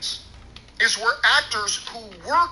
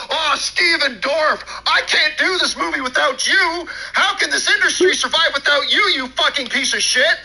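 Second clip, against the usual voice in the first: mock pleading producer; 5 semitones higher, 4 dB louder than usual. Mock Kevin Feige begging Dorff.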